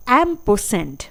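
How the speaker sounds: एम्परसेंड said "em-per-send"; pronunciation demo. Shown as a demonstration. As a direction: model एम्परसेंड clearly. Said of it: "इसके बाद अगला है".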